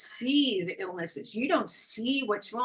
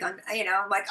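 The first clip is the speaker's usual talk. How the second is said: usual speaking voice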